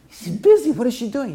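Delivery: high, disbelieving "she's busy?"; can't believe he's being brushed off; incredulous prince. Acted. Prince hears the princess is too busy, asks in high disbelief.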